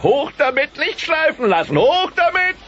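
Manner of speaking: high, loud, whooping encouragement; catcalling cheer. Acted. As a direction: cheer her tail on like a rowdy fan. Roy cheers on a tail.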